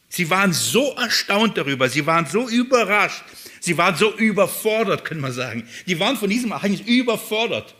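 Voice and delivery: ordinary talk, nothing marked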